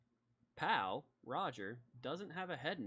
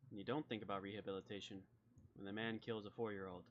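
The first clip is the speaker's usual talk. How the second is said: softer, measured lawman with pauses; understated, serious talking-to; grave folksy sheriff; 2 semitones lower, 4 dB quieter than usual. Acted. Sheriff lecturing a young man on rehabilitation, quietly grave.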